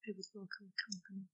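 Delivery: very soft, under-projected reply; barely audible. Real, not acted. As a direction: say it far too quietly to carry. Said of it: "speak up a little bit".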